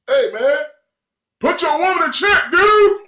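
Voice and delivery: high, loud heckler yelling from a car window; yelled taunt. Retold or imitated. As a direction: holler it at someone passing by.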